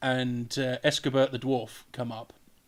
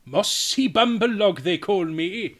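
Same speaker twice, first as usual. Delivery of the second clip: slow, grand self-introduction; proud Welsh character; 4 semitones higher, 4 dB louder, slower than usual. Acted. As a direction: announce yourself slowly and proudly. Character proudly declares name.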